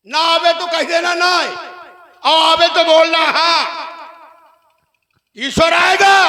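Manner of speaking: high, ringing stage declamation; theatrical call demanding an answer; rousing Ravan. Acted. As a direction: throw each clause out to the whole crowd. Stage Ravan rouses the crowd.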